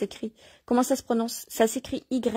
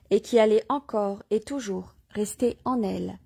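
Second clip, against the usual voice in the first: measured, declaimed reading with phrase-by-phrase pauses; devotional reading aloud. Acted. Reader proclaiming Mary to listeners, devotional reading aloud. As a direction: read it out solemnly, phrase by phrase.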